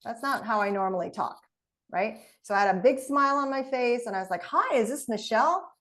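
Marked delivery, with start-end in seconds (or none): 4.4-5.7 bright, eager hello, pitched up; upbeat, enthusiastic phone opener; pumped up greeting. Shown as a demonstration. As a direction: greet her like you're thrilled to call. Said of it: "how, like, pumped I was".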